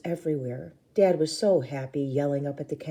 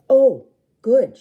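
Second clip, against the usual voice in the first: put-on pleased kid; 8 semitones higher, 12 dB louder than usual. A narrator's reading. Rue pleased with candy.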